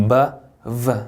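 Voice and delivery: "바" with lips, then "V" buzzed; B versus V. Shown as a demonstration. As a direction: contrast "바" and "V" slowly. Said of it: "다르죠?". ("바"와 "V"를 구분해서 발음)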